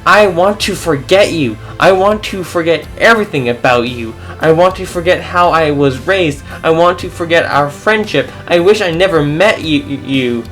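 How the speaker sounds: angry shout. Acted. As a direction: let the anger take over. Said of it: "I shouted out as my anger took over".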